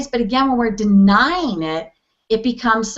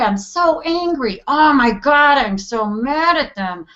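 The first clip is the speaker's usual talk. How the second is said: ranting; 3 semitones higher than usual. Shown as a demonstration. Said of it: "rant tapping and just tell the story".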